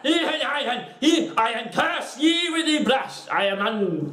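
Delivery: high, slow cackling curse; wailing mock-sorceress voice. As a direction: cast a hammed-up spell, high and drawn out. Acted curse while waving the brush.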